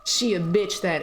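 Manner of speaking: low conspiratorial whisper. Real, not acted. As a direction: hiss it as a secret aside. Aside about the witch.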